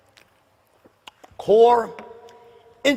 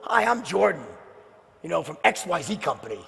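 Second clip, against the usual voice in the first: ordinary talk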